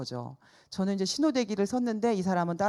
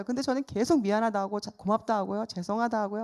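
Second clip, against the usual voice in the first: usual speaking voice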